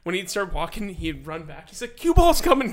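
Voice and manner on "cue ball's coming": put-on high, loud urgent kid hiss-free call; kid's warning. Kid warns classmates teacher is coming, high loud call. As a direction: warn the class the teacher's back.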